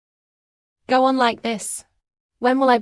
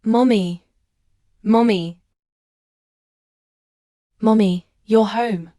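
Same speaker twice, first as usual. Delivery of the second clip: calling Mommy from across the house, a bit louder; 4 dB louder, slower than usual. Acted. Child greets mother coming home, calling out.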